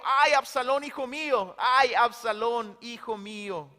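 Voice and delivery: a cry at full voice that dies away at the end; anguished cry. Acted. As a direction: cry out for the lost son. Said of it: "seguía gritando a voz en cuello". (grito de dolor que se apaga)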